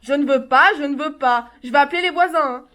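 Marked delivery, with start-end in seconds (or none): 0.0-0.7 louder, insistent no with a rise; loud refusal. Acted. Mother refusing her son his fatigues, loud. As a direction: throw the refusal at him.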